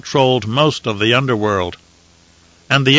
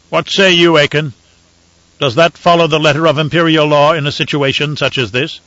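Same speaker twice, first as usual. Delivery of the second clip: a lightly raised, measured imperial voice; Emperor; 4 semitones higher than usual. Acted. Emperor to the ambassadors, calm and lordly. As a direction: weigh it coolly from the throne.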